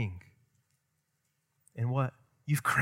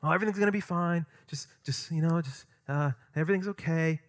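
light, halting imitation of empty comfort; breezy, vague mock comfort; glib mock reassurance; 3 semitones higher than usual. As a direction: brush it off like a hollow platitude. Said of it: "Sometimes we talk like that".

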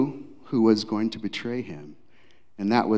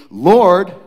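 surprised Peter; 7 semitones higher, 10 dB louder than usual. Acted. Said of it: "He says".

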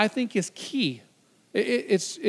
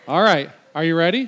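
calling out; 8 dB louder than usual. Real, not acted. Calling out to volunteer on stage.

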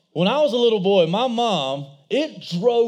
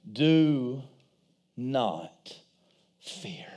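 hushed prophet; 9 semitones lower, 6 dB quieter, much slower than usual. Acted. Preacher dramatizes Elijah's words slowly.

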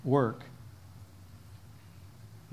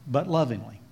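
said lovingly; 4 semitones lower than usual. Shown as a demonstration. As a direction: ease into lovingly gently. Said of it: "firmly but lovingly".

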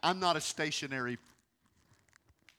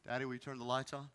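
put-on soft child-like plea; 3 semitones lower, 6 dB quieter, faster than usual. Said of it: "what God is saying to us".

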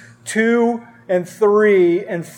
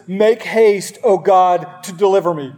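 urgent desperate plea. Acted. Pastor reading David's psalm aloud, urgent desperate plea. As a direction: read it as a man begging for rescue. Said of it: "Listen to the urgency and the desperation".

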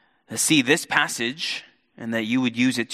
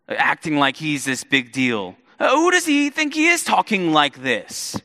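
indignant crowd. Retold or imitated. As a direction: build from grumbling to outrage. Crowd contempt toward Jesus.

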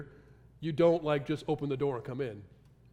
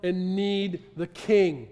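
slow surrender; 5 dB louder, much slower than usual. Retold or imitated. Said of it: "he's saying".

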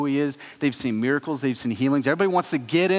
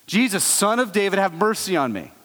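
lightly raised beggar's call; mild mock yell; 3 semitones higher than usual. Beggar ignores the crowd and calls again, mild raised yell. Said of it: "he just yells out again".

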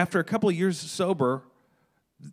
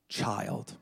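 hushed word; 6 semitones lower, 8 dB quieter than usual. Retold or imitated. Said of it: "felt like a word was spoken".

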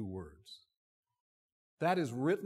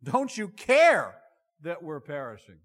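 panicked cry; 7 dB louder than usual. Retold or imitated. Disciples crying out in storm.

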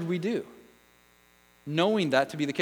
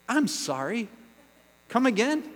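surprised; 5 semitones higher than usual. Acted. Listener's disbelief.

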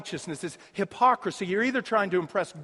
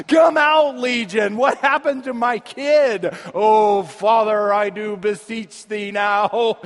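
mock exorcism; 6 dB louder, slower than usual. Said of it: "possessed with a demon".

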